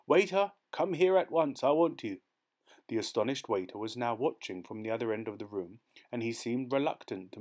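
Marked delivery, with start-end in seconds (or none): 0.1-2.2 much higher and louder summons; calling out. Acted. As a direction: call the waiter over eagerly. Excited diner summons waiter.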